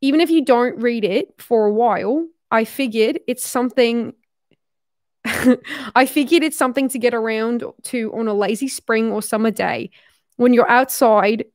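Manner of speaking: wobbly imitation Australian accent. Shown as a demonstration. Reading a note about a summer book, shaky attempt at Australian accent. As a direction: keep up an amateur Australian accent as you read. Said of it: "I'm so bad at this accent".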